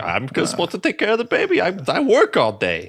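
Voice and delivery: mock angry wife. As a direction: argue back hammed-up. Acted couple quarrel.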